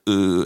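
drawn-out mock French "euh"; exaggerated "uh", held long; French hesitation "uh". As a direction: imitate everybody's French filler. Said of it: "everybody's like".

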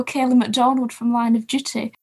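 lightly put-on Scottish accent; mock Scottish accent. Echoing co-host's running joke, mock Scottish accent. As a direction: have a go at sounding Scottish. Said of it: "in a Scottish accent".

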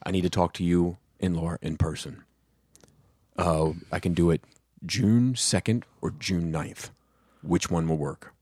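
a hint of a businesslike dad with pauses; dad's phone voice. Dad arranging a talk with his son, in low phone voice. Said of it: "that's his phone voice".

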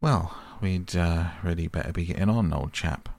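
quick offhand brush-off, x1.7 pace; a casual hurry-along to an old friend; careless. Acted. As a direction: toss it off lightly as if it hardly matters. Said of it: "remarking carelessly".

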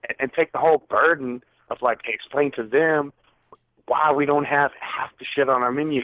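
retold angry rant. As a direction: vent about facing the customers. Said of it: "Calm down".

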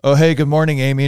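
high, loud mock-cheerful hello from a sleazy coworker; creepy coworker greeting. Coworker greeting Amy at her desk, hammed-up cheery. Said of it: "He walks out and he's like".

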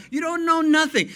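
"know" shouted high and loud; a loud, rising preacher's cry on "know"; emphatic shout. Shown as a demonstration. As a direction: punch "know" hard. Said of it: "repeated punchline".

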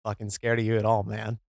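low dopey tough guy; dopey deep voice. Acted. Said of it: "I'm gonna try a character voice this week".

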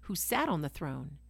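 measured, reverent Bible reading aloud; scripture reading. Acted. Preacher reads Revelation to listeners, reverent reading voice. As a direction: read the passage as solemn scripture.

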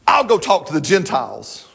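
acted-out exasperated giving in; mildly huffy retold concession; frustrated. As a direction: throw up your hands in mild mock frustration. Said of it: "getting all frustrated and go".

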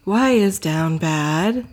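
seance medium. Acted. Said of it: "Should I use your seance voice?".

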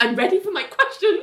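high, laughing self-satisfied sing-song; smug diva. Retold or imitated. Ling strutting to the press, high smug voice. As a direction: play it like a star heading to the press. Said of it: "she's like".

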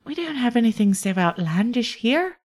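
courteous innkeeper offering rooms; Iolasa the host. Acted. GM voices Iolasa.

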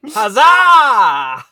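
loud triumphant huzzah; loud cheer. Acted. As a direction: cheer it out victorious.

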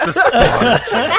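put-on creepy little boy voice. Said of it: "your creepy little boy voice".

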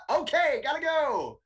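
panicked hurry. Retold or imitated. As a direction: blurt it out and bolt for the door. Panicked exit from gas station.

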